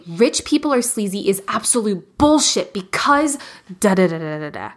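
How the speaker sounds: punchy, dismissive rant opener; emphatic rant. Shown as a demonstration. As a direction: rant like you mean it. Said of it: "I say".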